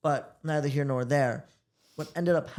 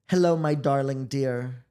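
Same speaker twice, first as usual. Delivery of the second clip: drawn-out, louder sweet greeting; addressing the voice assistant; 6 dB louder than usual. Shown as a demonstration. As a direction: greet the AI like a lover, slowly. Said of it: "Look, ready? Listen".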